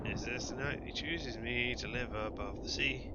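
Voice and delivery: a hint of a pleading hook creature, slow in places; lightly voiced lonely hook. Voices a fishing hook character.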